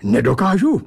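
mildly indignant challenge; protesting. Acted. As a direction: throw the word back in protest. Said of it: "ohradil jsem se".

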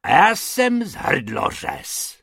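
slow, threatening roar. Acted. Hrubec roars back at the rabbits, threatening. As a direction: bellow like a cutthroat. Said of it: "zařval pan Hrubec".

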